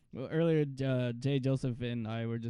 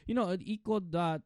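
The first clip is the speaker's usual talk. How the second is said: put-on higher Filipino-accented dad; 5 semitones higher, 3 dB louder than usual. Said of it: "it's the Filipino way".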